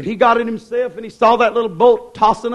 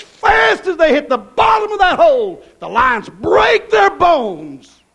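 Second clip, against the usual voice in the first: shout; 5 semitones higher, 4 dB louder than usual. Real, not acted. Preacher building to a shout.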